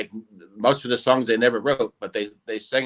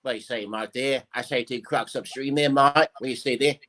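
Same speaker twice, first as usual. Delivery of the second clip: Australian impression. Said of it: "give me a couple of Australian impersonations".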